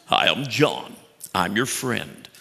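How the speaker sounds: lightly put-on voice of a mentor; a loose imitation with swooping intonation; John Maxwell impression. Preacher mimics his mentor for the congregation, lightly put-on voice. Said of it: "starting to hear John Maxwell's voice".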